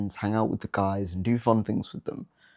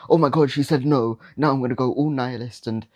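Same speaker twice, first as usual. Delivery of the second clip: whiny rejected guy; 3 semitones higher than usual. Retold or imitated. Rejected guy spiralling after a girl says no, mock whine. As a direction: ham up a self-pitying meltdown. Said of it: "that dickhead guy that's like".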